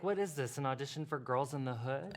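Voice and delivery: ordinary delivery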